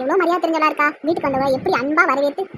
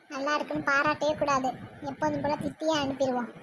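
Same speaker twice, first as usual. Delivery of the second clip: slightly hushed, lower aside; scheming aside; 3 semitones lower, 5 dB quieter than usual. Acted. Mother-in-law decides to withhold praise for the tea, scheming aside. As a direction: plot it quietly to yourself.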